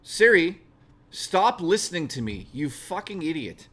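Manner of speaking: genuinely fed up, yell at the phone; real annoyance snapped at Siri; rage at Siri. Real, not acted.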